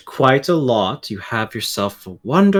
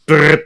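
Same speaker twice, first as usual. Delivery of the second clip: flipping pages noise; 3 semitones higher, 4 dB louder than usual. Shown as a demonstration. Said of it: "I'll just skim, go".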